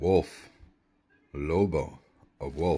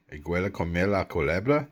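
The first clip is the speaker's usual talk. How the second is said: same sentence run together faster; confident second read, faster; fluent repeat; faster than usual. Shown as a demonstration. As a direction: say it again smoothly and quick. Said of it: "The aguela comía la culebra".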